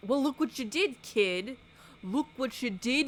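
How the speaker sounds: high, loud taunting clown; mock clown taunt. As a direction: sneer it like a nasty clown. Clown scolding the girl.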